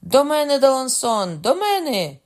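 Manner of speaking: very high, loud summons; urgent high cry; shouted call for help. A narrator's reading. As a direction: call a companion to your rescue. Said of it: "крикнув Карл".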